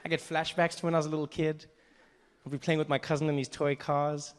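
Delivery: ordinary delivery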